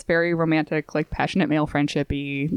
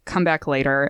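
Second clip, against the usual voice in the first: lower, cool dismissal; super cold; 4 semitones lower than usual. Retold or imitated. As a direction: send him away without warmth. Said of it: "super cold".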